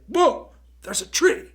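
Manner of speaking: high, loud mock "Whoa" with a laugh; laughing high-pitched mock alarm; startled cry. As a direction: yelp at the sudden tree. Tim spots the tree, acted.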